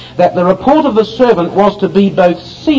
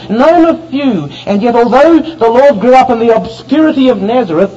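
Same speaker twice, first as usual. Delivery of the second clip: higher-pitched, insistent pulpit delivery; fervent preaching; 5 semitones higher than usual. Real, not acted. Preacher telling of Christ growing up in obscure Nazareth, fervent. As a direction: preach it with mounting conviction, each phrase pressed home.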